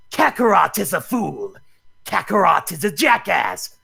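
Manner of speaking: slow, proud cartoon prince sneering at his rival; Ocean Dub Vegeta. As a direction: spit out the insult like an arrogant anime villain. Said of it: "pretty good at Ocean Dub Vegeta".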